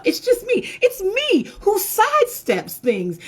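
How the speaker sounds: high and slow, laughing the words out; laughing at herself. Real, not acted. Speaker admitting her own habit to the audience, laughing. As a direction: giggle through the confession.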